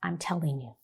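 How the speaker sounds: quiet told-you-so warning; quiet, pointed insistence. Retold or imitated. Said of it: "she looks at me and she says".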